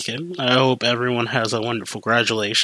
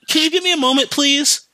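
higher-pitched, put-upon customer asking for a moment; mock a customer's testy request, pitched up; snippy customer; 12 semitones higher than usual. Acted snippy customer at counter.

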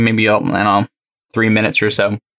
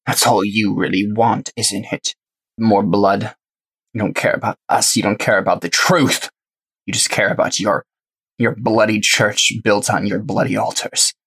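scoffing heretic. Acted. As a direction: accuse your captor with open scorn. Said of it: "She just scoffs and she says".

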